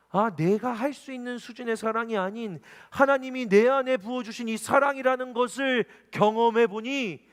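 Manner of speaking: high, loud preaching at full force; impassioned preaching. Acted. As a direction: preach with swelling fervor.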